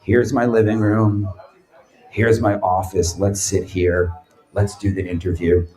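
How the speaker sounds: low, flat imitation of a tired old man; tired Trebek. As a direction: drag through it, energy off. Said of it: "He goes".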